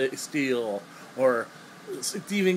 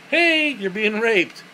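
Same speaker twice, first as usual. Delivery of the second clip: high, louder, drawn-out mock call; mock surprise announcement; 7 semitones higher, 5 dB louder, slower than usual. Reviewer jokes about a little surprise, mock loud call.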